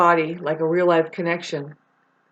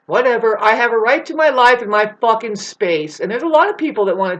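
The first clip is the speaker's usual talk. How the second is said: sarcastic outburst; 3 semitones higher, 6 dB louder than usual. Real, not acted.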